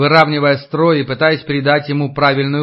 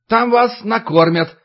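official announcement; 7 semitones higher than usual. Acted. Official continues speaking.

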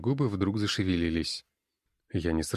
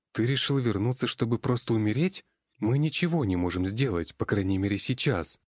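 heated objection; 4 semitones higher than usual. Acted. Borya argues against returning.

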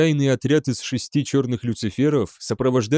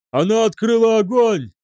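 high, loud alarmed cry; shouted warning; 10 semitones higher, 5 dB louder than usual. A narrator's reading. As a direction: scream the warning to the bridge. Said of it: "закричал офицер-наблюдатель". (кричит в тревоге)

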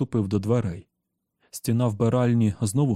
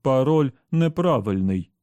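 gloating; 3 semitones higher, 4 dB louder than usual. Acted. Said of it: "нотки зловтіхи".

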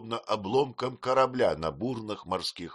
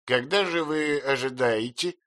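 louder, higher businesslike question; brisk aunt; 7 semitones higher, 4 dB louder than usual. A narrator's reading. Aunt demands when the baby is due, bluntly. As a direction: ask it bluntly.

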